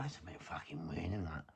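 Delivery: a soft, unvoiced whisper of an inner thought; a hushed, wary aside. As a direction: whisper it like a suspicion to yourself. His private thought about the man.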